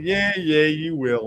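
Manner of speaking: retold patronising tease; teasing humouring. Teasing his angry girlfriend again.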